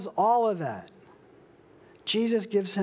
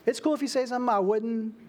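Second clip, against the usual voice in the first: quick, casual, a bit higher; mock millennial hedging; 4 semitones higher, faster than usual. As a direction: toss it off like a laid-back millennial. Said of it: "like I would or like a millennial".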